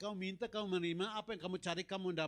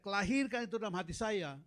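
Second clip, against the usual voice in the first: retold cry; 4 semitones higher, 4 dB louder than usual. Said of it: "Saat dia berteriak".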